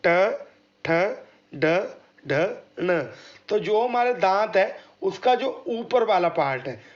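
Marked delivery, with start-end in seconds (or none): 0.1-3.0 ट ठ ड ढ ण spoken one at a time; retroflex demo. Shown as a demonstration. Teacher demonstrating retroflex consonants to the class. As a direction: articulate each retroflex consonant slowly. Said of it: "बोल के देखेंगे".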